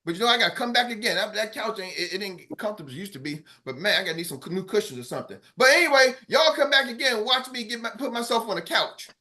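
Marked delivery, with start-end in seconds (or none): 0.0-5.4 fast muttered aside. Real, not acted. Mock complaint about couch.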